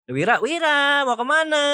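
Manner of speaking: calling after someone. Retold or imitated. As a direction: imitate calling after a friend who is leaving. Acted calling after Wira.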